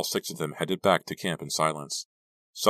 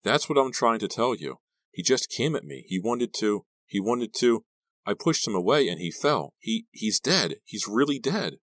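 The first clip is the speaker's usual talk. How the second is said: higher-pitched, faltering explanation; upset, halting account in a raised pitch; distraught; 6 semitones higher, 3 dB louder than usual. A narrator's reading. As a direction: insist through shock and distress. Distraught Della reports the death.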